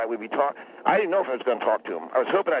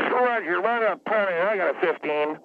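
terse pilot radio under strain; 4 semitones higher than usual. Shown as a demonstration. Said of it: "Let me just call it in".

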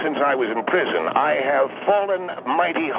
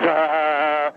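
imitated hesitation. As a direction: mimic a drawn-out stalling "ah". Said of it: "every other thing you say is".

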